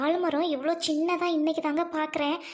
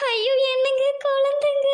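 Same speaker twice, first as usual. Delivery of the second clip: higher and louder, a sudden cry of discovery; excited shout; 6 semitones higher, 6 dB louder than usual. Acted. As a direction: gasp out on finding the children. Wife finds the crying children. (குழந்தையைக் கண்ட உற்சாகக் கூவல்)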